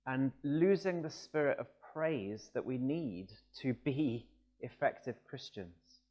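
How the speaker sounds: ordinary delivery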